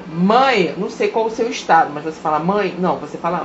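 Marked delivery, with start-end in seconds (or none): none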